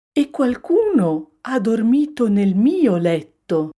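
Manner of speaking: high, loud, indignant mother bear; mama bear grumbling. A narrator's reading. Mama bear finding her bed slept in, grumbling. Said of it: "brontolò mamma orsa".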